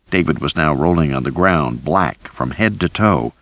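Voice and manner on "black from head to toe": plain reading voice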